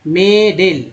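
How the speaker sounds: मेडल with a long "ay" vowel in both syllables, "may-dayl"; wrong pronunciation. Shown as a demonstration. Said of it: "तो गलत हो जाएगा ना".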